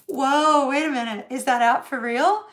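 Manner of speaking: loud disbelieving whoa, wait a minute; amazed disbelief. Retold or imitated. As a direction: catch yourself in amazement. Surprised, questioning app.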